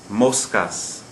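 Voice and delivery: MOScas, weight on the first syllable; second-to-last syllable stress. Shown as a demonstration. Teacher giving a Spanish example, Moscas stressed on MOS. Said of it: "Notice the stress on the second to last syllable".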